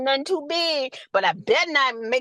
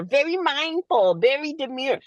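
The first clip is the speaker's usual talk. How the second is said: a hint of a polite, mindful nurse act; mock demure persona. Nurse mocking her paid online persona, lightly prim. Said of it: "They pay me to act demure".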